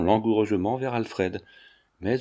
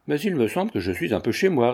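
smiling reply; 3 semitones higher than usual. Acted. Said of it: "répliqua Freinet en souriant".

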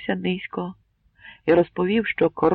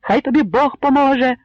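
loud, high authoritative blessing; an old man's firm command; 9 semitones higher, 8 dB louder than usual. A narrator's reading. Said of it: "почувся чийсь владний голос". (владний голос діда Панаса)

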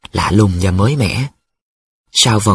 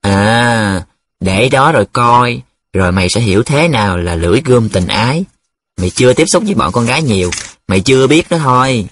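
mild know-it-all threat; warning. Acted. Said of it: "giọng răng đe". (giọng răn đe)

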